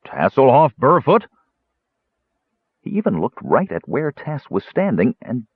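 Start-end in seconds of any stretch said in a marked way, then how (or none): 0.0-1.3 louder calling yell of a name. A narrator's reading. Mage searching the hall, yelling for the kender. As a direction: call him out down the hall.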